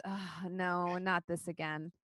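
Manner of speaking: sighed-out dismay; here-we-go-again sigh; weary sigh. Acted. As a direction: sigh it, resigned. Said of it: "Freely sighs".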